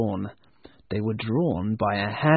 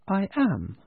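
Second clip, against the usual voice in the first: soft and gentle; 6 semitones higher than usual. Acted. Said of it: "The voice was soft and gentle".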